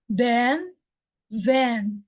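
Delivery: then said clearly; teacher's model. Shown as a demonstration. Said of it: "I will say it first".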